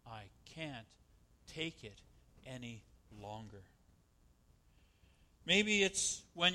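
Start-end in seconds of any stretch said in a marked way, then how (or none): 0.1-3.6 much softer, giving up; worn-out employee finally giving in, quiet; defeated. Retold or imitated. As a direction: say it drained, barely there. Worker worn down by boss.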